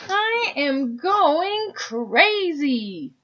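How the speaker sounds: complaint climbing to a high loud shout, slow on I am going crazy; angry rant building. Acted. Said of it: "Now Peter was angry".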